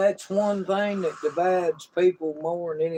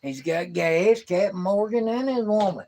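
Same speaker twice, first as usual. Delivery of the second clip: clarifying repeat; 4 semitones higher, 4 dB louder than usual. Real, not acted. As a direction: spell it out for someone who missed it. Repeats it for a confused listener.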